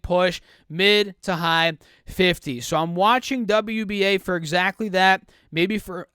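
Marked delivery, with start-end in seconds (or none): 5.5-6.1 catching in the throat; words catching, throat tight; choking on words. Real, not acted. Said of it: "I'm choking here".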